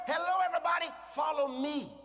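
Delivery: Jesus calling the crowd to follow; confident Jesus voice. Acted. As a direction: announce yourself boldly like Jesus. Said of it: "How many of us can talk like that?".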